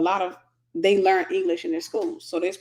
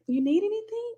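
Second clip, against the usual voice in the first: much higher mock hostess voice; wife's voice; 12 semitones higher, 4 dB quieter than usual. German wife offering the guest something, high mock voice. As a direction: lightly voice the polite hostess. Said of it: "she's like".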